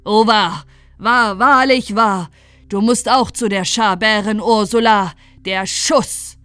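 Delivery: loud, horrified outburst; booming, drawn-out alarmed cries; startled shout. A narrator's reading. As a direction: cry out as if struck by terror. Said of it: "schrie wie erschreckt".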